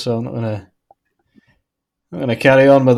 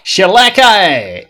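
high, drawn-out mock cry; playful exclamation; 6 semitones higher, 4 dB louder, slower than usual. Co-host relishing an odd novel title, playful exclamation. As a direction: call it out big, falling at the end.

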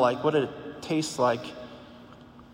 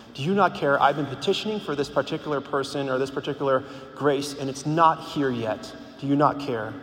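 lightly acted pleading with Jesus, a touch more forceful; emotional plea. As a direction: pour out your frustration in prayer, mildly. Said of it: "really relating your emotions to him".

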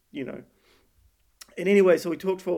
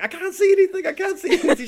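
much higher, louder, laughing fake panic; high, loud hammed-up cry of helplessness; joking mock panic; 8 dB louder than usual. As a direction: pretend you're blind while reversing, for a laugh. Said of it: "as a joke".

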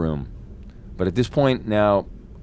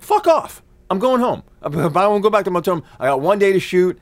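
high-pitched, exasperated rant; re-enacted angry outburst; 9 semitones higher than usual. Actor refusing to return to his hotel room, exasperated. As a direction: blurt it out high, fed up and indignant.

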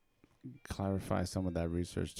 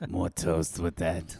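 diner waitress; 3 semitones lower, 4 dB louder, slower than usual. Acted. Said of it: "I sound like a truck stop waitress".

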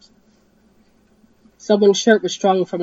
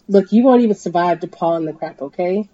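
yelled; 5 dB louder than usual. Acted. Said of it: "Bobby yelled".

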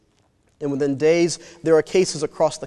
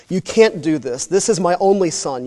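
a touch of raised protest; mild shout; 2 semitones higher, 3 dB louder than usual. Acted. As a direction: push back at the doctor, a bit louder. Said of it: "you shout at him".

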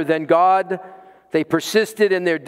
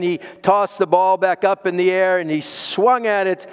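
normal talking voice

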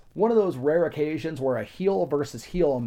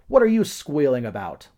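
retold yell; 6 dB louder than usual. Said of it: "Hogan walked over and yelled".

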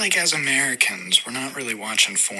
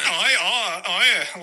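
put-on girl voice; 6 semitones higher, slower than usual. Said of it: "she's like".

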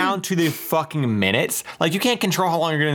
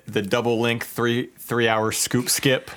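monotone; 4 semitones lower, much slower than usual. Retold or imitated. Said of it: "the most monotone".

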